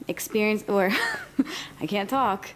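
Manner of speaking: slightly tipsy, laughing, tripping over words. Real, not acted. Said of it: "I'm a little tipsy".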